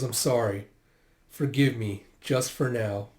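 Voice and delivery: gentle, subdued apology; tender apology. Retold or imitated. Apologising after the kiss, tender and subdued. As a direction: ask forgiveness gently.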